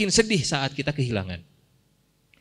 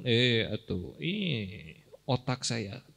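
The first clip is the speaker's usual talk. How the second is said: boastful Korun voice. Retold or imitated. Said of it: "Kata Korun".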